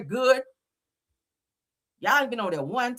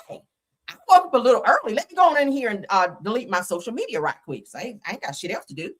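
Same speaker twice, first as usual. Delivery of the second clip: mock Becky voice; faster than usual. Mocking the judge's statement in a mock Becky voice. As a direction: read it like a smug prissy lady. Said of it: "I gotta say it in my Becky voice".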